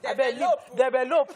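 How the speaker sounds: "develop," said the local way, pleading; local pronunciation. Shown as a demonstration. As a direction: say "I beg you, develop," the local way. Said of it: "local way of pronouncing certain words".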